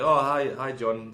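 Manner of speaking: bright mock greeting. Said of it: "and I was like".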